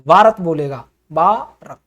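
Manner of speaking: भारत as बारत, unaspirated; English reading. Shown as a demonstration. Teacher imitating the English भारत. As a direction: say भारत with a plain b. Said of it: "भारत नहीं".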